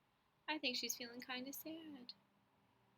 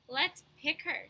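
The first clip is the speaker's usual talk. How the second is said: mock taunt; 3 semitones higher, 10 dB louder than usual. Girls taunt Chrysanthemum.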